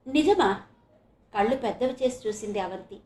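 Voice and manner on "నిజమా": high, loud one-word question; astonished and curious; amazed. A narrator's reading. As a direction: ask it in wide-eyed disbelief. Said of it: "ఆశ్చర్యం, కుతూహలం".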